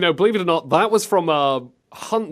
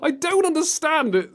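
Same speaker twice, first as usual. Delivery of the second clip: high-pitched, incredulous wail; exasperated, voice shooting up; giddy bafflement; 11 semitones higher than usual. Real, not acted. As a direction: squeal it in baffled disbelief. Baffled, giddy at bad acting.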